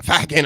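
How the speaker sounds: "fucking" with a flat A, like "facking"; mock-accented "fucking" as "facking"; odd accented swear. Joking mispronunciation, echoed by listener.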